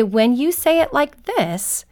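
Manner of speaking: measured, kindly demonstration of respectful speech; nice, respectful tone. Shown as a demonstration. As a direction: model a polite tone for a child. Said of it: "in a very nice, respectful tone of voice".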